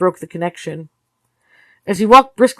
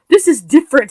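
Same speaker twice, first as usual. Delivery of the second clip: with finality; 7 semitones higher, 6 dB louder than usual. Acted. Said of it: "she said with finality".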